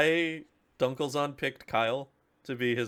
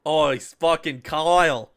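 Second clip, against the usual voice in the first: mock outrage; 3 semitones higher, 7 dB louder, slower than usual. Real, not acted. Mock exasperated emphasis.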